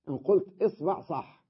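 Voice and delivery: إصبع said isbaʕ, i then a; إصبع with kasra on the hamza and fatha on the ba; kasra first vowel. Shown as a demonstration. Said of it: "كيفما لفظتها صحيحة". (إصبع بكسر الهمزة وفتح الباء)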